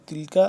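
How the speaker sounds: "تِلْكَ" with a non-emphatic k; thin kaf. Shown as a demonstration. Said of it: "یہ والا کاف باریک ہے".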